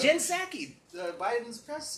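loud, high, laughing through the words; laughing shout. Real, not acted. Friend swearing a fly story is true, laughing loudly. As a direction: insist while cracking up.

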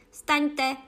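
high, loud piercing command; pronikavý vřískavý hlas. A narrator's reading. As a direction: shriek it as a sharp order. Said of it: "řekla královna pronikavým, vřískavým hlasem". (pronikavý, vřískavý povel)

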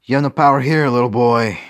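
put-on loud, high sneering British accent. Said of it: "stick with the British accent".

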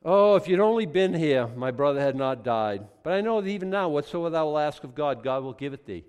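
loud, high grieving plea; pleading cry. Acted. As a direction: beg Jesus for your brother. Martha pleading to Jesus.

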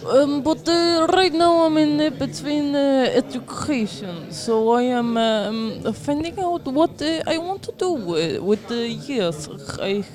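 put-on halting English in a Russian accent; searching for words with a Russian accent. Telling friends about education, put-on Russian accent. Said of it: "are you using an accent".

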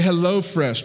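Hello Fresh with a clear, rounded O; carefully enunciated. Shown as a demonstration. Pastor explaining careful O in Hello Fresh. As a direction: say Hello Fresh, stretching the O sound. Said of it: "enunciate the O".

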